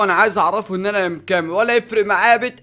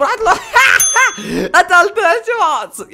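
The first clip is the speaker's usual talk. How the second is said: excited triumph; 11 semitones higher, 8 dB louder than usual. Real, not acted. Victory in game.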